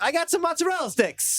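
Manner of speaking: high-pitched put-on diner voice; mock diner chatter. Friend joins the mock restaurant table talk, high silly voice. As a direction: pipe up high as an excited diner.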